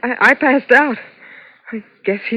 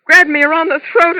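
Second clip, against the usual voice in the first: higher, voice catching on the memory; frightened; 7 semitones higher, 3 dB louder than usual. Acted. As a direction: relive the grab in fear. Reliving the attack.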